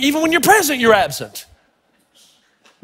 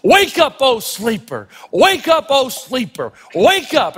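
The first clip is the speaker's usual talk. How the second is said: preaching repetition; slower than usual. Retold or imitated. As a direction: call and fall like a revival preacher. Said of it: "the African-American tradition of repetition".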